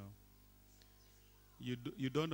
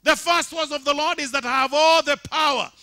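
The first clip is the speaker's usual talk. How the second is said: loud, high, sustained sermon delivery; full-force preaching; 11 semitones higher, 16 dB louder than usual. Acted. Pastor proclaiming resurrection to congregation, loud preaching. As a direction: proclaim it to the whole church.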